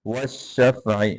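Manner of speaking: वश्शफ़ई with doubled sheen, not वल; waw joined to sheen. Shown as a demonstration. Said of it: "इसको वाव को शीन के साथ मिलाएंगे".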